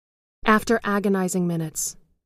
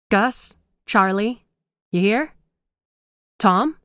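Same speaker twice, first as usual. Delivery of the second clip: louder, higher calls across the room; calling out; 4 semitones higher, 5 dB louder, slower than usual. A narrator's reading. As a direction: call into the empty shop. Calling out in empty shop.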